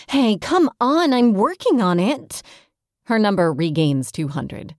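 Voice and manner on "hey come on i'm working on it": high, loud protest at the board; screaming. Acted. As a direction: yell it up at the screen, half-joking. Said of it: "She screams at the board".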